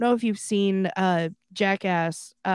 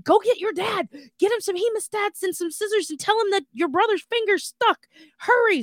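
high-pitched, urgent panicking mom; mock motherly alarm; imitated freak-out; 11 semitones higher than usual. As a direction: rattle off orders as a frantic mother. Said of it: "My mom is flipping out".

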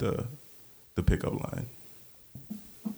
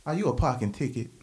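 cheesy pickup line; 5 semitones higher than usual. Acted. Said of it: "number two".

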